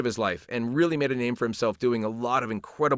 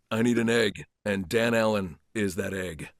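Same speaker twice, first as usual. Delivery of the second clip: character voice; 5 semitones lower, 4 dB quieter than usual. Shown as a demonstration. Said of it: "a couple of your characters, can they say something to Dan".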